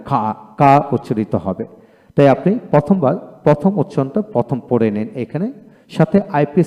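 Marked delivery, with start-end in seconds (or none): 0.1-0.7 কা with the final R dropped; British-style কা, R left silent. Shown as a demonstration. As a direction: say কা with a long "aa", no R. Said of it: "আর উচ্চারণ হবে না".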